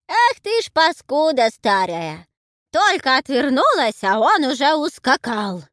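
put-on high, loud old woman's scolding; loud old granny scolding her husband. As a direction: berate the runaway old man.

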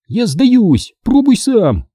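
high, fed-up give-up; exasperated Sherry. Acted. Sherry hands Greg the camera, exasperated. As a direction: throw up your hands.

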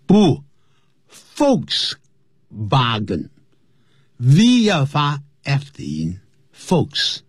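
Volks said with an F sound, foks; German Volkswagen. Shown as a demonstration. Teacher shows the German V sound, Volks with an F.

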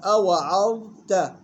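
slow أوعظت, thin ayn and ta, held dha; light ayn and ta. Shown as a demonstration. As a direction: draw out أوعظت with an unemphatic final "ta". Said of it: "يلاحظ ترقيق العين والتاء". (أوعظت بترقيق العين والتاء)

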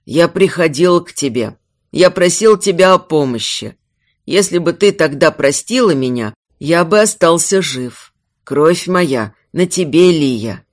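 low, mournful reproach; understated sorrow; sad father. Acted. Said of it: "очень тихий и печальный голос отца".

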